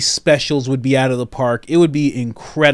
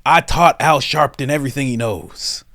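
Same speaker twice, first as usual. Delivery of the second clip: mock Biden. Extended Biden impression riff.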